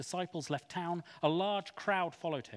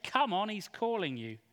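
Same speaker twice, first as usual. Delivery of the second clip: eager urging; 6 semitones higher, 4 dB louder than usual. A narrator's reading. Crowd urges beggar to Jesus.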